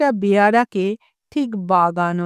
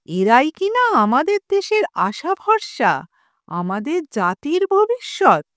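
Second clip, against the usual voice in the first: loudly; 4 semitones higher than usual. Acted. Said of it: "জোরে জোরে বলেন".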